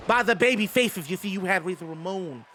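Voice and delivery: lightly voiced Southern wrestling promo; Dusty Rhodes voice. Streamer paying off a channel point redemption, doing a light Dusty voice. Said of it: "use a dusty voice".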